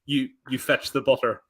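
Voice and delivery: usual speaking voice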